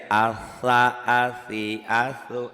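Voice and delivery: "Asa, asi, asu" with a pure s, no t before it; S without T. Shown as a demonstration. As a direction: chant "Asa, asi, asu" letting the s hiss without a stop. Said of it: "T-nya hilangin aja".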